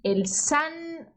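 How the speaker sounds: El san hombre, San Pablo, San Miguel, very slow and spaced; slow model reading. Shown as a demonstration. Teacher listing apocope examples slowly for students. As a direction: drag each San phrase out slowly. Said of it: "San vem de".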